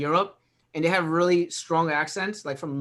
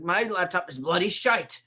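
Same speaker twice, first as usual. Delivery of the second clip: mock British caller. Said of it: "It's like".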